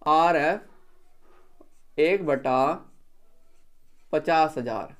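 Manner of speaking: dictating the scale word by word; slow dictation. Shown as a demonstration. Teacher dictating the RF to students, very slow and spaced. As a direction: draw out each word slowly so the class can write it down. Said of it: "लिखिए RF".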